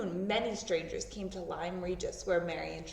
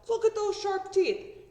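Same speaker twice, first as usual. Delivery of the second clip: amazed man; 11 semitones higher, 7 dB louder than usual. Acted. Amazed men at the cliff.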